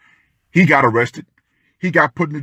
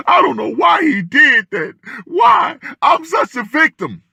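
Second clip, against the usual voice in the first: mock crocodile tears; 13 semitones higher than usual. Vlogger mocking ex-wives' crocodile tears on TV, high hammed-up whine. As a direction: squeal like a fake weeping ex-wife. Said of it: "crying those crocodile tears".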